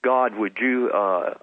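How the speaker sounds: a casual, conversational request to God; casual offhand prayer. Retold or imitated. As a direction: ask God informally, as if chatting. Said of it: "I just said it just like this. I didn't really pray".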